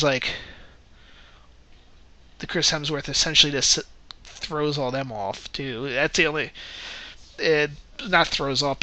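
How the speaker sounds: normal talking voice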